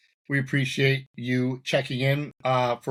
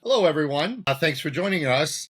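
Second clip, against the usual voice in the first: show intro demo; 3 semitones higher, 3 dB louder than usual. Shown as a demonstration. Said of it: "I would start with".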